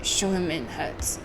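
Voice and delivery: put-on amateur stab at a German accent; slow, badly done German accent; shaky German accent. Announcing a visitor to the doctor, rough German accent. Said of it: "don't know how to do a German accent".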